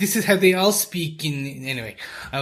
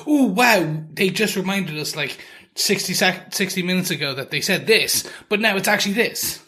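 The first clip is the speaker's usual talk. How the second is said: hammed-up viewer surprise; mock amazed viewer; 4 semitones higher than usual. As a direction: play the fooled viewer gasping.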